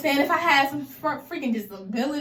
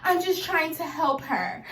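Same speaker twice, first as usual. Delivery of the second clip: mock sweet voice; 5 semitones higher, 3 dB quieter, slower than usual. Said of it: "she would be like".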